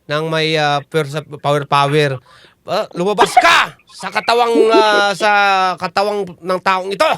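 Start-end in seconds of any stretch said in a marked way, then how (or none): 2.6-7.1 commanding faith healer; exorcist. Acted. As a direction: cast the demon out. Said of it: "Ganon yung ginagawa ng mga mandatawas".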